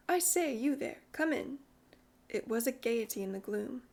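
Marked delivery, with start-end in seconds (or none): 0.1-1.6 lightly voiced boy, higher and bright in tone only by pitch; a hint of a cheerful little boy calling out; tinkling boy's voice. A narrator's reading. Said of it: "His voice tinkled out".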